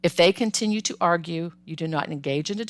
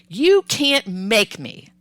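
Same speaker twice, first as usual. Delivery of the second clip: slow, drawn-out mock defiance; imitating a child's drawn-out refusal; defiant child; 3 semitones higher, 4 dB louder, much slower than usual. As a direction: dig in like a stubborn kid. Defiant child voiced as scenario.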